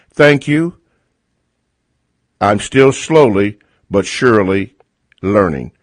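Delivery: reading a letter aloud slowly, with clear pauses; measured read-out, phrase by phrase, giving each chunk room; slow careful reading. Real, not acted. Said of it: "I'm gonna try to read this slowly".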